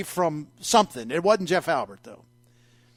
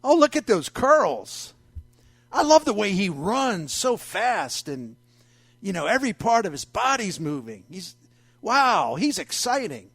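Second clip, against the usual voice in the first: swooning fan voice; 2 semitones higher than usual. Retold or imitated. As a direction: gush over him like a smitten fan. Imitating swooning girlfriends.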